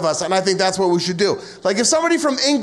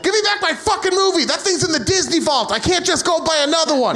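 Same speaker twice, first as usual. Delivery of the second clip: higher, hammed-up outrage about a movie; mock angry demand; 6 semitones higher than usual. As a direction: play it as a petty, furious demand. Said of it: "Be like".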